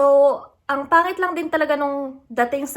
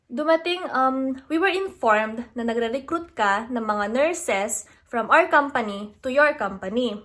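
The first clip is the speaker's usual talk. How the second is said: normal talking voice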